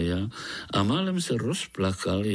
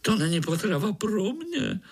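higher, fed-up grumble; peeved mosquito; annoyed; 10 semitones higher than usual. Acted. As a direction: sound put out. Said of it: "řekl komár otráveně".

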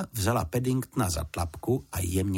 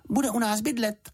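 announced; 13 semitones higher than usual. A narrator's reading. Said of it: "oznámila Juditka".

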